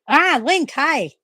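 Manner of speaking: high, laughing hello to the pet; delighted greeting. Real, not acted. Owner surprised by her cat jumping on her shoulder, laughing high greeting. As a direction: burst out laughing as he lands on you.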